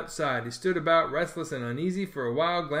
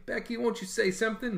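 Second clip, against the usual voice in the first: pleading; 7 semitones higher than usual. Acted.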